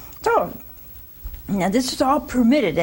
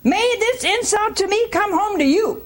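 high, accusing complaint; wife blaming husband in a sharp voice; 10 semitones higher than usual. Retold or imitated. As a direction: throw the blame at him. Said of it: "And she said".

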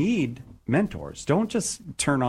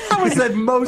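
laughing disbelief; 9 semitones higher, 5 dB louder than usual. Real, not acted. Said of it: "That's a caveman".

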